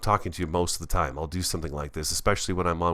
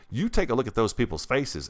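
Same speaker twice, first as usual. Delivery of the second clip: ordinary talk, nothing marked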